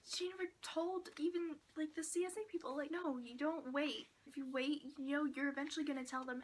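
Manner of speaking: exasperated rant. Retold or imitated. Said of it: "Just like".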